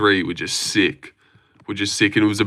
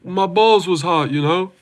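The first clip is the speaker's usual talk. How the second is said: higher-pitched comic sidekick impression; imitated comic-relief catchphrase, pitched up; Derek Lewis; 8 semitones higher than usual. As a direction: put on an American fighter's voice for a gag. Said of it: "honorary black guy in every movie".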